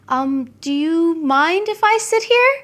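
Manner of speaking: mildly irritated polite request; pointed politeness to a seat hog; asking a bus passenger hogging seats, faintly annoyed; slightly annoyed. Pretend. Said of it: "to show that you are slightly annoyed".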